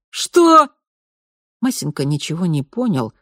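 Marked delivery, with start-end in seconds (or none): 0.1-0.7 surprised. Acted. Major taken aback.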